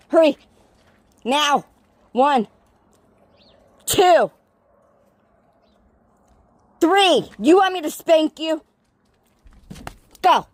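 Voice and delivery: loud, rising stern count. Real, not acted. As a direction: count down like a strict parent. Counting to three, threatening dog.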